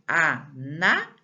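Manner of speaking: "Análises" split slowly into syllables, NA stressed; syllable-by-syllable reading. Shown as a demonstration. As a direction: read "Análises" slowly as A-NA-li-ses, leaning on NA. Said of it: "olha aqui como é que eu vou ler".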